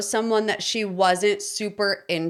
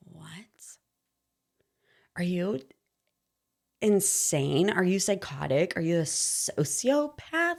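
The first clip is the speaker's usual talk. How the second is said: incredulous retort; 3 semitones lower, 7 dB quieter than usual. Retold or imitated. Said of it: "And I'm like".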